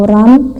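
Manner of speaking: "ran" climbing upward; rising ran. Shown as a demonstration. Teacher demonstrates "ran" to students, rising. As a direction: let "ran" rise at the end.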